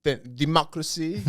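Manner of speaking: slow mock French accent on democracy. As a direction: say it like a hammy Frenchman. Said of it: "Nice French accent".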